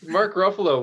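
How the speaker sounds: announcer voice. Pretend. Announcing guest in put-on voice.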